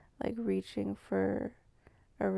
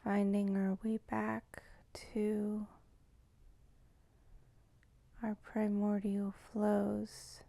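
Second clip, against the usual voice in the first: slow, measured meditative intro with long pauses; guided meditation; slower than usual. Real, not acted. Welcoming listeners to tune into primordial flows, slow meditative delivery. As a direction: draw each phrase out slowly, leaving space between. Opens a guided tuning-in practice.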